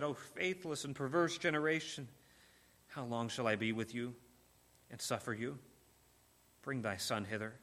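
a sorrowful, hushed reproach; weary Jesus. Acted. Jesus rebuking the faithless generation, low and soft.

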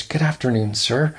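a breezy greeting from a man who claims to be starving; a touch of chirpy cheer, lightly imitated; mock cheerful. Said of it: "says in a cheerful tone of voice".

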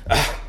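loud irritated-teenager grunt, imitated; short, loud mock teenage noise; teenager's noise. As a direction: imitate a teen's wordless "ah" of protest. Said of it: "the noises of a teenager".

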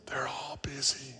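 put-on soft whispered child voice; child's whisper. Boy tells the telemarketer his age in a whisper. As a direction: whisper like a hiding little boy. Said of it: "Still whispering".

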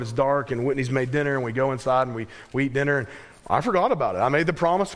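normal talking voice

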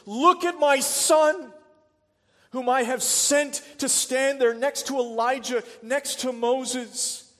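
booming preacher voicing God the Father; the Father speaking. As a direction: proclaim it loud, as God reassuring his people. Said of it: "the Father announces".

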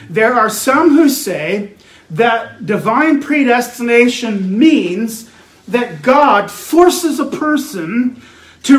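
slow, weighty pulpit delivery; emphatic preaching. Acted. Preacher setting out a view he rejects, emphatic preaching. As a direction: lean hard on each phrase of the claim.

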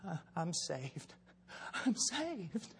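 hushed disbelief rising into jubilant shouting; dawning realization. Retold or imitated. Acts out man realizing he is saved.

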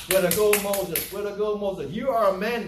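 loud, high congratulation; acted cheering. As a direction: cheer Moses on. Acts people cheering Moses.

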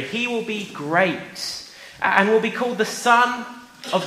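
slow, solemn Bible reading; scripture reading. Acted. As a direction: read it slowly like scripture. Reads Bible verse to children.

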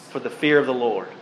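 quiet echo of the verse; soft reflective repeat. Acted. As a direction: let it sink in quietly.

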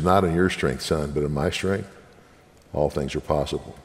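calm fatherly assurance, dropping low; voice of God. Retold or imitated. God reassuring the weeping preacher, low and soft.

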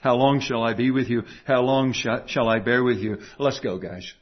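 a quiet, fed-up giving-up voice; lightly voiced weary teacher ready to quit; mock exasperated Jesus. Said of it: "He doesn't just say".

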